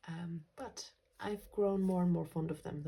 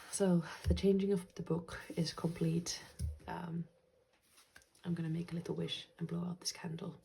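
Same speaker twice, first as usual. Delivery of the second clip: whispering. Real, not acted. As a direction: whisper it close to the mic. Candle ritual narration.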